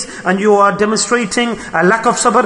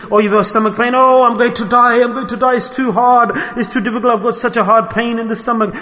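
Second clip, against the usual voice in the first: higher, hammed-up moaning; mock-melodramatic groaning about pain; dramatic complaining; 4 semitones higher than usual. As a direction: overplay the stomach ache like a drama queen. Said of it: "I'm complaining and crying and complaining".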